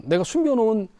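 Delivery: ordinary delivery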